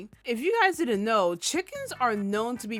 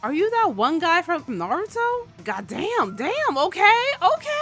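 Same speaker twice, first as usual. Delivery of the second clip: rising, louder and higher okays; excited disbelief; 8 semitones higher, 4 dB louder than usual. Real, not acted. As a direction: climb up in amazed disbelief. Reacting to the fight.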